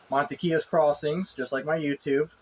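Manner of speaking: talking through acid reflux; words caught by reflux burp. Real, not acted. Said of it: "I was doing a little bit of reflux there".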